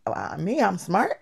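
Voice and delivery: softly asked, rising question; mild disbelief. Retold or imitated. Girl hearing she is smart for the first time, quietly incredulous. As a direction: act out timid surprise at a compliment. Acting disbelief at being praised.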